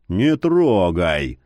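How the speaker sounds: low slow curt warning; curt rebuff. A narrator's reading. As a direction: cut her off sharply. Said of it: "осадил Яр".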